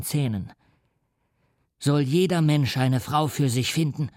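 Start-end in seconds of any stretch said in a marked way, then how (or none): 1.8-4.1 mild shout. Acted. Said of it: "schrie er".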